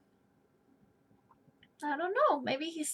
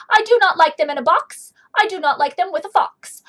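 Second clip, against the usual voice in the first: loud, stubborn grumpy guy; grumpy refusal; 9 dB louder than usual. Acted. Grumpy guy refuses Sam, loud stubborn no. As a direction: bark each no like a cranky grown-up.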